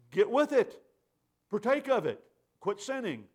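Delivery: a preacher's firm urging; urgent exhortation. Real, not acted. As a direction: press them to act now.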